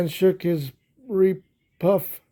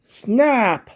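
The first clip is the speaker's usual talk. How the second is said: high, loud sharp snap; a ram snapping sharply, much higher and louder; snapped; 7 semitones higher, 6 dB louder than usual. Acted. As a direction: bite the word off. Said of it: "said the ram".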